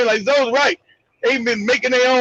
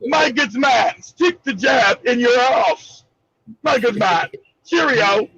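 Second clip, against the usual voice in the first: mock British accent; slower than usual. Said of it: "General Mosquito be like".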